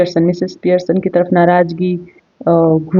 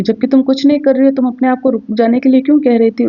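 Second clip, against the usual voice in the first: puzzled; 5 semitones higher than usual. Acted. Husband confused, questioning.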